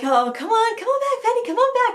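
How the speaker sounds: high sing-song call to the dog; bright coaxing call across a field. Real, not acted. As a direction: coax the dog back from afar. Calling the runaway dog back.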